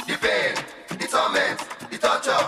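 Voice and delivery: breathy whisper, dragged out; whispered lament. Acted. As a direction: whisper each word like suffering.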